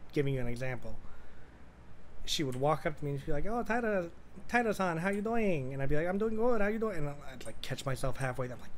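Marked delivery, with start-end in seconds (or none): 3.5-5.7 high-pitched, sing-along greeting impression; imitating her. She walks up to greet the streamer, imitated in a higher voice. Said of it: "I'm not making fun of her when I do this". 6.1-7.0 high-pitched imitated small talk; mirroring her voice. Streamer answers her, caught copying her higher voice. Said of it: "We don't talk like that".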